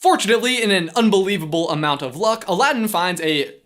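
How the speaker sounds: energetic, emphatic host delivery; punchy scripted commentary; presenter read. Acted. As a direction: open high and sell the script. Reads scripted line to camera.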